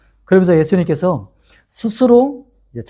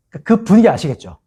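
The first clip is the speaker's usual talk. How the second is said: ordinary delivery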